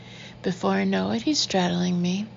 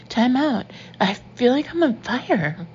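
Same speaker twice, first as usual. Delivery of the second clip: higher and louder, alarmed; alarmed plea; 5 semitones higher, 4 dB louder than usual. A narrator's reading. Woman pleading with her boyfriend to stop, alarmed and loud. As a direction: call a halt in a burst of alarm. Burning skin, pleads with Ben.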